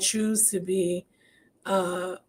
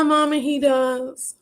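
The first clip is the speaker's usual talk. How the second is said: tearful; 5 semitones higher, 3 dB louder, slower than usual. Real, not acted. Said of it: "I'm definitely getting emotional".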